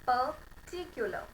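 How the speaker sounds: particular said very slowly, r dropped; demo pronunciation. Shown as a demonstration. Teacher to class, particular said very slowly with the r dropped. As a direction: particular drawn out with no r sound. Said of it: "the pronunciation would be".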